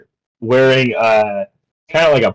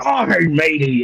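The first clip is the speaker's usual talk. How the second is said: lightly voiced, pleased old salt; a hint of a sailor's delight; overjoyed fisherman; 3 semitones higher than usual. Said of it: "he's overjoyed".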